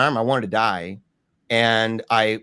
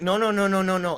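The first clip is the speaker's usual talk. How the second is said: high, rapid-fire repeated refusal; retold full-blown panic; 8 semitones higher, faster than usual. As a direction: act out a rising inner panic, pitched high. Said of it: "it's panic, full blown".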